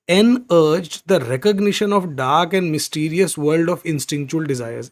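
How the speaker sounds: very slow, word by word; slow reading. Shown as a demonstration. Teacher reads the sentence aloud to the class. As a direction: spell out the sentence slowly. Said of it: "reads passage line slowly".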